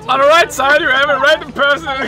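airline pilot announcement. Acted. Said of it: "Einmal eine Pilotendurchsage".

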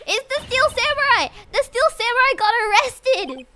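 high, loud breathless-with-news outburst; frantic excited news. Acted. Maya telling Nick of the arrest, frantic. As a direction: blurt it out in alarm.

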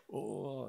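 imitated indignant gasp and "Oh"; gasp, then a drawn mock "Oh"; mock offended gasp. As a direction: act out someone taking offence. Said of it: "he's being angry".

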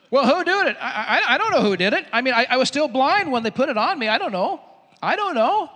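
flustered protest. Acted. Healed man answers his questioners, flustered. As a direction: protest helplessly that you don't know.

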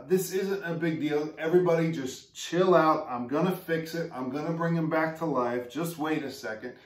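a touch of breezy mock nonchalance; dismissive reassurance. Imagined Jesus telling mourners to chill, mock breezy. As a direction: brush off the grief casually. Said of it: "He doesn't say".

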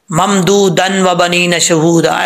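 ममदूदन read without merging into व; wrong reading. Retold or imitated. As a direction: demonstrate the mistaken join. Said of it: "ऐसे नहीं". (गलत तरीका)

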